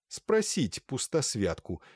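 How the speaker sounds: ordinary delivery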